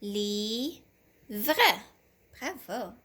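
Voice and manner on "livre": "Livre" cut into slow separated syllables; sounding out "Livre" with a lift at the end. Shown as a demonstration. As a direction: chop "Livre" apart for a young reader.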